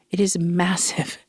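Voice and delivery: breathy stage whisper, slowed down; hushed, awed whisper. Shown as a demonstration. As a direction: let it out as a secret aside. Repeating the line in a whisper.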